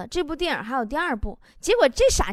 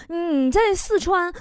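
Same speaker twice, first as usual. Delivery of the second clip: hesitant asking; 3 semitones higher, slower than usual. Retold or imitated. Hesitant caller feeling out a favour.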